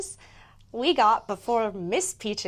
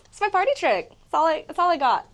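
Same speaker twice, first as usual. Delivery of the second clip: giggly; 9 semitones higher, 8 dB louder than usual. Real, not acted. Giggly after the squeak.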